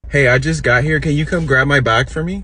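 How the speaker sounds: put-on upbeat entitled Valley Girl voice; breezy Valley Girl ask; Valley Girl accent. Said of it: "this Valley Girl accent".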